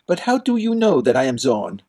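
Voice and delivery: put-on startled young prince. Prince urgently questioning the Duke. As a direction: press the Duke for an answer.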